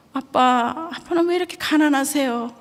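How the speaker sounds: a hint of a tearful boy; crying son. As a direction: voice the ten-year-old son begging through tears. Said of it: "막 흐느껴 우는 거예요".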